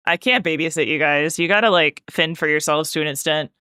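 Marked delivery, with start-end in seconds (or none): 0.1-1.4 laughing. Real, not acted. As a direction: repeat it through a small laugh.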